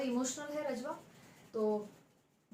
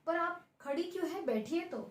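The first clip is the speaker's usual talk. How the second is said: हल्की चिढ़; 6 semitones higher than usual. Acted. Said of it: "फिर कुछ चिढ़ती है".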